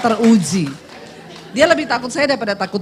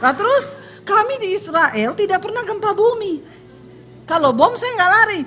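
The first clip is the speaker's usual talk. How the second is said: higher, louder laughing retort; laughing protest; 9 semitones higher, 4 dB louder than usual. Retold or imitated. Preacher laughs at the guide's quake excuse, higher laughing retort.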